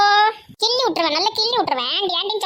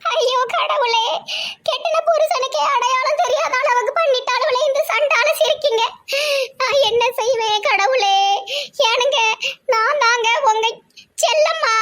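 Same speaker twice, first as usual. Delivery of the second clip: lament; 4 semitones higher than usual. Acted. Wife laments not recognized.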